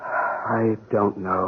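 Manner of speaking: near tears. Acted. Despairing cop near tears.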